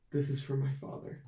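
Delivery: softly spoken vow; under her breath. Acted. Astrid aiming the hammer at the army, under her breath. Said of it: "under her breath says".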